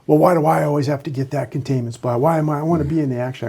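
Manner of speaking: fast, lightly mocking complaint; mock whine of a deputy stuck on containment; whiny deputy. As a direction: rattle off the gripe like a sulky junior. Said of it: "deputies that".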